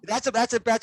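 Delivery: words broken by laughter; laughing. Real, not acted. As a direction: chuckle through the words. Laughs after obvious answer.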